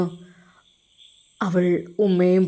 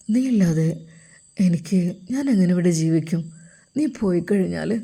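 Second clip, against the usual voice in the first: put-on childlike pleading; 3 semitones lower than usual. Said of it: "അവൻ ഒരു കൊച്ചു കുട്ടിയായി മാറി".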